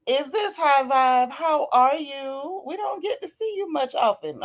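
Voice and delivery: fond, surprised hello; tender surprise. Real, not acted. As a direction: welcome a rare visitor fondly. Surprised greeting to rare viewer.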